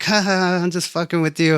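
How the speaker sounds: retold "just messing with you" voice; mock teasing laugh. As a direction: play it as a kidding brush-off. Retold teasing joke in story.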